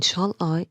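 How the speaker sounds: "shall" lighter, "I" stressed. Shown as a demonstration. Teacher naming one iambic foot, stress on "I". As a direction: land the beat on "I". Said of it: "the stress is on I".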